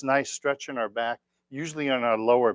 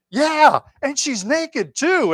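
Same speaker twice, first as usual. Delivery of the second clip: put-on higher, louder, slow sly old man voice; cheeky old man; 14 semitones higher, 6 dB louder, much slower than usual. Old man joking about the nurse, high and sly. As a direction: drag it out like a naughty joke. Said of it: "He goes".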